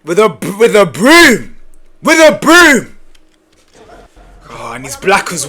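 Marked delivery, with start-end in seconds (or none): 0.6-3.0 incredulous. Real, not acted. Incredulous repeated exclamation.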